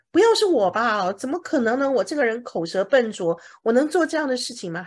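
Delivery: a hint of a reluctant, doubtful Moses; Moses protesting. Moses protesting to God he is not fit, mildly acted. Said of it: "摩西说".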